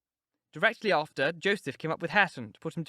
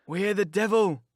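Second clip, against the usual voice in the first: put-on surly old servant; 2 semitones higher, 5 dB louder than usual. Joseph starts to rail.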